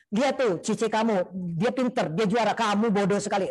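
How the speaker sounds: mock scolding with a sibling held up as example; belittling parent. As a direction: act out a reproachful parent. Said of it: "dibentak-bentak dan lain sebagainya".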